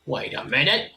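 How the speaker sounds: questioning goblin voice; dawning suspicion. Acted. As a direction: let the doubt creep in, rising at the end. Goblin growing suspicious, first take.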